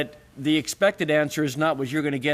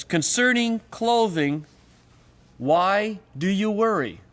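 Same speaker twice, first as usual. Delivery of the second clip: deliberative question; 5 semitones higher, slower than usual. Shown as a demonstration. Reading a deliberative question aloud.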